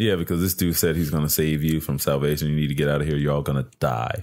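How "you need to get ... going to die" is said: put-on creepy tone, lower pitch. Retelling a movie character's warning to campers: imitating a creepy warning. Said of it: "he says in a really creepy way".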